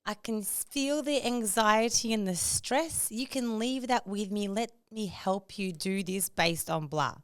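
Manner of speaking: drawn-out, patronizing sympathy; imagined chatbot voice. Acted. Chatbot offering to take her stress, patronizing. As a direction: coo slowly like an over-caring assistant. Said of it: "this is the voice that I'm imagining".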